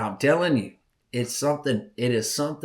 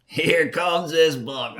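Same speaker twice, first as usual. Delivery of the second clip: slow, louder amazed repeat; excited; 5 semitones higher, 4 dB louder, slower than usual. Retold or imitated. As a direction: let it land like you can't believe your eyes. Buck appears, repeated with emphasis.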